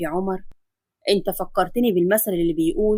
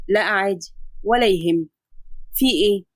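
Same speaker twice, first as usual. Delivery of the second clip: a lower, steady doctor's voice; calm doctor; 3 semitones lower than usual. Acted. Adam explaining the X-ray to his patient, calm lower doctor voice. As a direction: reassure the patient like a calm physician.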